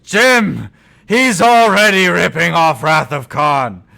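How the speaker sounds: loud hammed-up protest; mock shout. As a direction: belt it out in mock alarm. Character yells in retold scene.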